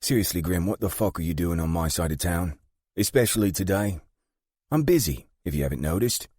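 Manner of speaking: tight, high-pitched annoyance behind a held smile; through her teeth. A narrator's reading. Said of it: "she says through her teeth".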